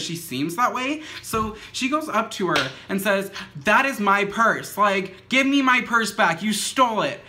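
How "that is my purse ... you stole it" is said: raised-voice mock yell, punching the words; retold yelling. Burnt lady accusing moped lady of stealing her purse, mock yelling. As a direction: imitate an accuser demanding her property back, somewhat louder. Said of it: "yelling at this lady".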